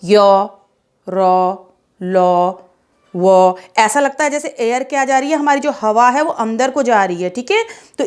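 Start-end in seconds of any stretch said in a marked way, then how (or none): 0.0-2.5 patient teacher sounding out य, र, ल; slow letter demo. Shown as a demonstration. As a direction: model य र ल so pupils feel the air. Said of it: "देखिए".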